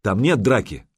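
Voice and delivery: shout. Acted. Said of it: "крикнул Дахи".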